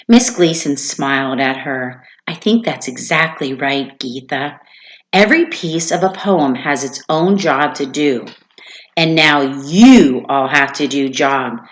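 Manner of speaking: lively storybook read-aloud to a class; reading a story aloud. Acted. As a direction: read it to the kids with expression. Teacher reads story to class.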